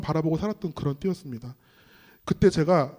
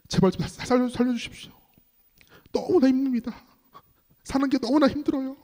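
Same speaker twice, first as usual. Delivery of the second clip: reenacted weary plea, pitched up; pleading prayer; 6 semitones higher than usual. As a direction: beg God for relief, acting it out. Retells second desperate prayer, head bowed.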